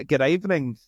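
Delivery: rehearsed Australian greeting; fake Australian accent. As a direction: try the put-on Australian hello. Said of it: "I would be Australian".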